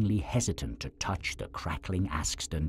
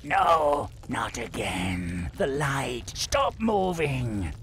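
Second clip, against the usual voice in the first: high, panicked troll cry; 11 semitones higher, 5 dB louder, slower than usual. Acted. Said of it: "exclaimed in panic".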